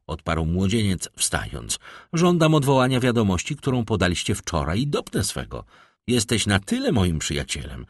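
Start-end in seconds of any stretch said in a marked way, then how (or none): 2.1-5.7 raised, louder, indignant demand; insistent demand. A narrator's reading. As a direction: demand it and refuse to budge. Young man rises, demands retraction.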